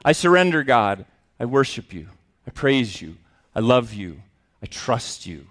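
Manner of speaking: surrender turned into worship; worshipful surrender. Retold or imitated. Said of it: "to worship from this".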